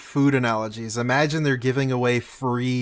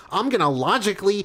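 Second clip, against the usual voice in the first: mock nerd voice; 4 semitones higher than usual. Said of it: "fucking nerd emoji".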